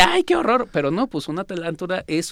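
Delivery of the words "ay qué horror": shrieked high "Ay, qué horror" in imitated fright; high squeal of mock disgust. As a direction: play someone recoiling from a tarantula, squealing way up. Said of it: "ve una tarántula y dice".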